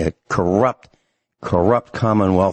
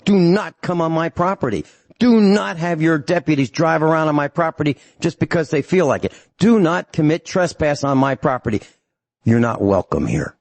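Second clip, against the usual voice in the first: retold stern warning; 5 semitones higher than usual. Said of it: "I called our sheriff and I told him".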